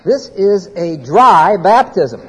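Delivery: "dry" leaned on, said slowly; slow down and hit "dry"; stress on dry. Shown as a demonstration. Preacher telling the class the baptism is dry, stressing "dry". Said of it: "there is no water involved".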